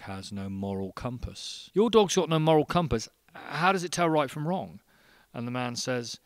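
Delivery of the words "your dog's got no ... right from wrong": high, loud barman disbelief; acted incredulity. Barman questioning man about his amoral dog, incredulous. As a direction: pitch it up, mock astounded. Barman reacts to dog's missing morals.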